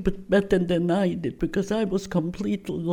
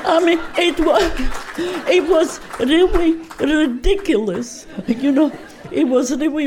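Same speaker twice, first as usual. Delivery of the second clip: higher and louder through real laughter; real laughter breaking through the words; laughing; 7 semitones higher, 5 dB louder than usual. Real, not acted. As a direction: laugh at how absurd it was. Laughs at her own reply.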